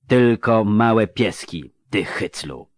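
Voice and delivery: slow, breathless insult; zdyszana czarodziejka. Acted. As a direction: pant it out slowly, spent but defiant. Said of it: "wydyszała czarodziejka". (wydyszane powoli, z pogardą)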